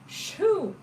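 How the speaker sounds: sudden high startled exclaim. Real, not acted. Startled by her puppy, high exclaim. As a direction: caught off guard by the dog.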